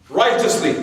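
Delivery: dry, deadpan sarcasm; sarcastic. Acted. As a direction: say it straight-faced, meaning the opposite. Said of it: "I'm just being sarcastic".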